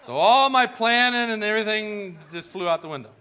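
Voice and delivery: high, loud, laughing through the words; can barely get the story out for laughing; laughing while telling. Real, not acted. Telling the congregation the funny story, laughing.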